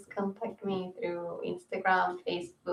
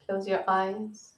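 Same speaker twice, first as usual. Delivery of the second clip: unhurried yoga nidra guidance; calm guiding voice, phrase by phrase; guided meditation. Real, not acted. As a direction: ease them into rest with spacious pauses.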